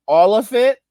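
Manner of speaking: a high, pointed 'All of it?'; incredulous question. Pretend. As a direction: challenge them in disbelief. Mock exchange with greedy boomer.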